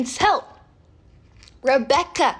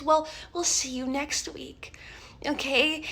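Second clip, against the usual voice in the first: soft, softer whispered farewell; whispered goodbye; 5 dB quieter than usual. Retold or imitated. Rebecca whispering goodbye to the leaving new girl. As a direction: breathe it out sweetly.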